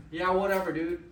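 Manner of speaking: loud, dismissive retold brush-off; mad. Art walks away from Walt Disney's offer, mad. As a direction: throw it out loud, imitating a fed-up friend. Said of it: "He was so mad".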